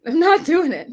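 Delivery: laughing. Real, not acted. Refusing amid laughter.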